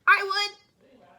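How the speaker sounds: high, loud and odd; a prickly little volunteer; spiky sea urchin voice. Acted. Sea urchin agreeing to protect the house, spiky high voice. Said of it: "answered a spiky sea urchin".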